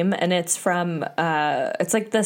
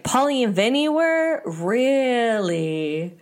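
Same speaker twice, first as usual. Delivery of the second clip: drawn-out, higher-pitched sceptical question; mock disbelief; 5 semitones higher, slower than usual. Recapping J Wow's reaction to the news, mock disbelief. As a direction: act out dawning suspicion.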